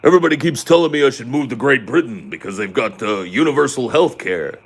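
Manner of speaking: mock a Brit joking about teeth; mock British accent. Gamer mocking British teeth, in a put-on British accent. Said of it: "his own mocking of them".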